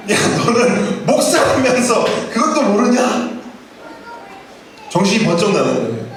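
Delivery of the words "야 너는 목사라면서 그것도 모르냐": laughing self-rebuke. Retold or imitated. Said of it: "제가 얼마나 또 깜짝 놀랐는지".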